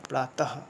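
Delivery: प्रातः said pratah with a final h; visarga as h. Shown as a demonstration. Teacher showing the class that visarga is read like ह, final h sound. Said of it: "इसको ह की तरह पढ़ते हैं".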